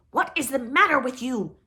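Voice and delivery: put-on troll yells at the wailing girl; troll's angry warning. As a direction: yell a threat. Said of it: "he warned".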